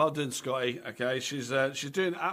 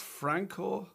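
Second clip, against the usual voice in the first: lightly put-on Italian accent, higher pitch; a touch of Italian accent, raised pitch; 5 semitones higher, 4 dB quieter than usual. Shown as a demonstration. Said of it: "say it in the accent".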